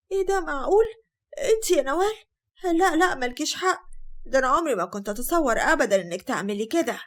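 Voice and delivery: high, put-on dismay with a hidden smirk; sly feigned shock. Sister-in-law pretending shock at the accused wife, slyly. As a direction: fake outrage, pleased underneath. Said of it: "هند ردت بخبث وقالت".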